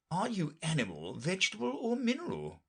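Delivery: weary lion talking through yawns; yawning. A narrator's reading. Lion questioning Alice, yawning through the words. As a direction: pitch swooping up as if yawning. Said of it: "yawning at every other word".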